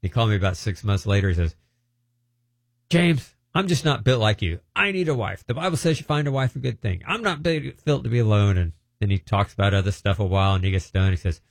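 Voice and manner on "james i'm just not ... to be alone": a higher, earnest plea; a hint of a lonely man begging; pleading. Minister pleading to be married.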